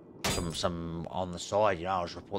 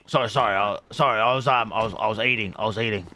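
loud, rushed, flustered excuses; flustered loud apology; 9 dB louder than usual. Acted. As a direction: blurt out your excuse like you got caught. Hostage caught off guard, flustered.

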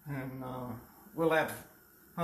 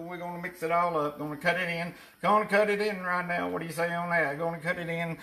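auctioneer voice; 2 semitones higher than usual. Pretend. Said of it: "recite the biscuit making in your auctioneer voice".

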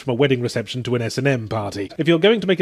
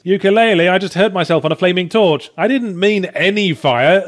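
higher-pitched, aggrieved scolding; mock complaint; 4 semitones higher, 3 dB louder than usual. Player scolding Yooka-Laylee after getting hurt on a torch, mock complaint. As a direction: whine in mock protest at being let down.

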